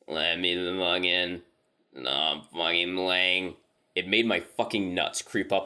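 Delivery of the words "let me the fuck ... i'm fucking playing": slow, halting voice of something not human; halting inhuman voice. Retold or imitated. Creature at the cabin door begging to be let in, slow and halting. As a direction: drag each word out with no natural rhythm. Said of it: "in this halting, weirdly toned voice".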